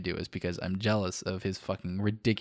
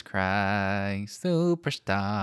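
weird voice; much slower than usual. Acted. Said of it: "That's the speaker's second weird voice".

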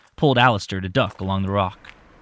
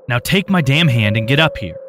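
firm, raised demand; 4 semitones higher, 6 dB louder than usual. Acted. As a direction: order him up forcefully. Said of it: "demanded Tim".

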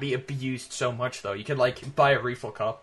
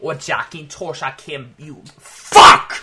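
mock British shopkeeper; 11 dB louder, slower than usual. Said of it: "I noticed that cut out".

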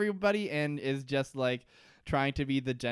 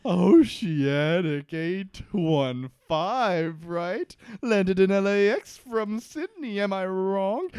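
mock dramatic Desmond; 4 semitones higher, 6 dB louder, slower than usual.

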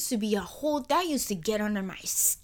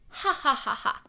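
forced laugh; 3 semitones higher than usual. Shown as a demonstration. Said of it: "Laugh with me".

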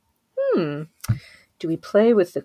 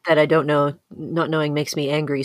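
usual speaking voice

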